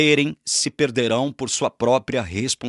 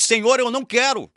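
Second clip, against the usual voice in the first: stubborn refusal; 12 semitones higher than usual. Pretend. João stamps his foot, refusing.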